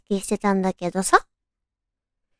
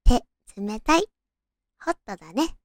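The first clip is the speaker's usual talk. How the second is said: put-on tender boyfriend; 2 semitones lower than usual. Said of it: "と言われ".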